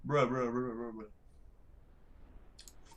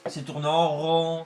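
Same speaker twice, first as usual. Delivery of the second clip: mock dismissal; 3 semitones higher, 7 dB louder than usual. Slow mocking dismissal.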